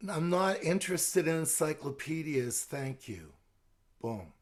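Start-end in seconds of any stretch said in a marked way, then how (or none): 0.1-3.3 calm soft refusal. Shown as a demonstration. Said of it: "Calmly, soft, repeating".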